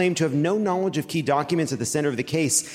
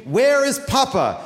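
high, drawn-out mock wail; mock scream; 9 semitones higher, 3 dB louder, slower than usual. Don Junior screams in court for his father, mock scream. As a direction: cry out slowly, pitched way up. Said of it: "Don Junior screamed".

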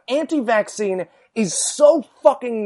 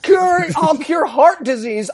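mock Huckabee boast; 6 semitones higher, slower than usual. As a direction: boom it out like a grand campaign pledge. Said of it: "he just goes".

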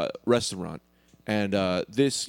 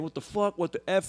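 retold angry yelling; 8 semitones higher, 3 dB quieter than usual. Storyteller imitating the soaked man flipping out, mock yelling. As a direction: imitate someone flipping out, voice pitched up. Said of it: "yelling at me".

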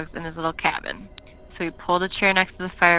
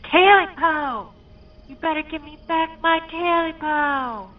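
high, drawn-out creature voice; eerie creature; 10 semitones higher, 3 dB louder, slower than usual. Acted. Creature in Smitty's room, high and drawn out. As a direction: drag it out, close and menacing.

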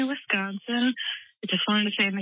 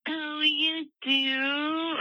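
quoting catchphrase; 7 semitones higher, much slower than usual. Retold or imitated. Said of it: "When you guys say".

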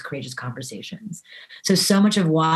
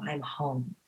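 relieved exhale; 3 semitones lower, 13 dB quieter than usual. Retold or imitated. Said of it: "that exhale of".

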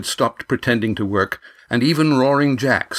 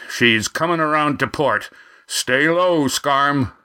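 shouted warning; 4 semitones higher than usual. A narrator's reading. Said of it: "Roaring Jack shouted".

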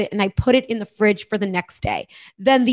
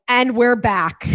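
news reporter voice; much slower than usual. Shown as a demonstration. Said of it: "like, a news reporter voice".

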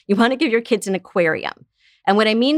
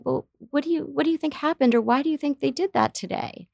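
gentle curious question; 7 semitones higher, 4 dB quieter than usual. Shown as a demonstration. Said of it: "and ask them".

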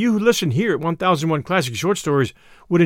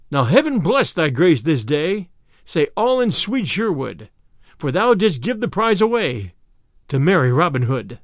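verse reading. A narrator's reading. Reads out the rhymed message.

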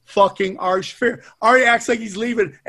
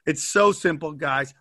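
sponsor ad read. Acted. Host hypes the sponsor to listeners, pumped ad read. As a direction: sell it like a late-night infomercial.

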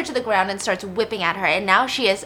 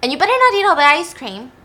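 mock warning; 6 semitones higher, 7 dB louder, faster than usual. Sister warning her brother.

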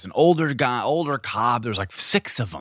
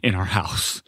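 imitating freaking out; faster than usual. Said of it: "freaking out".

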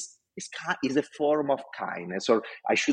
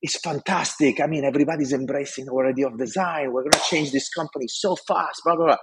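higher, bubbling enthusiasm to the boss; eager report; 5 semitones higher than usual. Retold or imitated. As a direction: sell the good news with excitement. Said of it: "And I tell him".

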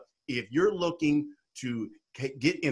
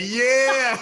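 high drawn-out admiring yeah; mock the ogling professor; hammed-up impressed leer; 10 semitones higher, 7 dB louder than usual. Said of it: "He was like".

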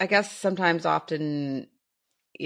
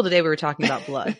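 normal talking voice

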